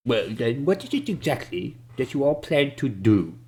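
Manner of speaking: lightly voiced village man asking; wary local asking the party's plan; Ben Dubas. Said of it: "But Ben Dubas speaks up again".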